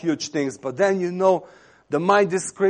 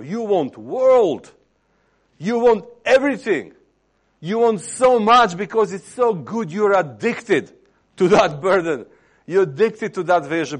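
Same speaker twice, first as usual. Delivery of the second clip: impassioned preaching; 6 semitones higher, 5 dB louder than usual. Real, not acted. Preacher to listeners on wanting the world and everything, impassioned. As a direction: press each want with rising fervour. Preacher mounting a passionate list of wants.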